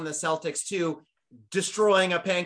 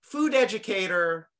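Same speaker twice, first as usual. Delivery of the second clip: slow announcer build-up; slower than usual. Acted. Host grandly introducing guest.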